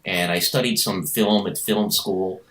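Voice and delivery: lightly voiced courteous introduction; mock-polite, tidy self-presentation; white guy impression. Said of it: "white guy impression".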